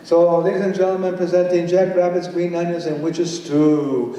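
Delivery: grand announcer build-up, slowing on the last words; announcer intro. Acted. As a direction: present the title like a ringmaster. Announcing the poem title.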